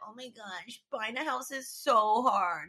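lightly mocking self-pitying whine; mock moping. Homeowner imagining herself complaining online, mock moping. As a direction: mope a little, drawing out the complaint. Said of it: "hear me moping and being like".

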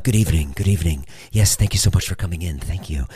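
low, formal greeting; a hint of a drilled restaurant greeter; lightly voiced waiters. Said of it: "you know, like soldiers".

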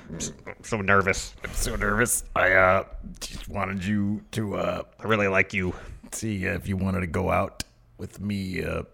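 lightly voiced bashful big guy, slow and halting; nervous Otis. Podcaster voices Otis asking Mandy out, shy and halting. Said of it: "Otis is all".

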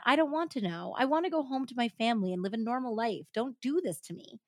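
pleading interruption. Retold or imitated. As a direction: break in, begging her to stop. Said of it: "she broke in".

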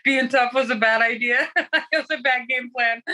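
real amused laughter between phrases; laughing. Real, not acted. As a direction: laugh at your own bad plan. Laughing at own failed game plan.

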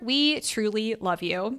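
soft, slow heartfelt thanks; sincere. Real, not acted. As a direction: say it tenderly.

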